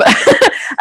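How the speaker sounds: short high laugh through real emotion; high emotional laugh. Real, not acted. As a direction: laugh off the tears.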